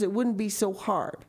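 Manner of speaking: hushed unvoiced words; whisper. A narrator's reading. Whispered lines.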